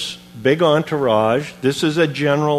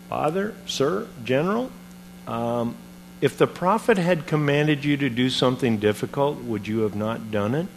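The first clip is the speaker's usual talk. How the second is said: softer, timid servants coaxing; softly pleading; 7 dB quieter than usual. Retold or imitated. Servants quietly urging the offended general to obey, softly. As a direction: coax the angry master gently.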